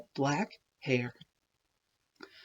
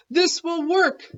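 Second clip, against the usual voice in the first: proud announcement; 11 semitones higher, 4 dB louder than usual. Acted. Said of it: "they announced".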